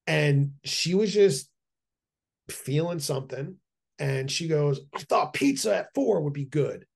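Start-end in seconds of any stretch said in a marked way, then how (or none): 4.9-6.8 mild imitation of the wife snapping; a hint of an irritated wife; lightly mocked curt reply; retold snap. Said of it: "snapped at me".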